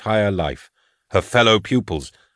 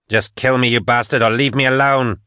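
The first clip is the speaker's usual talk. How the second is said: desperate outburst; 4 semitones higher than usual. Acted. Patience snapping at the voice in her head, desperate. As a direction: lash out at the voice.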